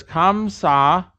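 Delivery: "Kamsa" read slowly, syllable by syllable; reading it as written. Shown as a demonstration. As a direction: sound out "Kamsa" in slow, drawn syllables. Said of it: "Read it for me, though".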